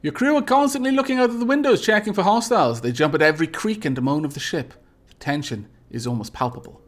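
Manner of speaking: game narrator setting a scene; dramatic story narration. Acted. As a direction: read it as tense space adventure, easing down. Reads game event text aloud.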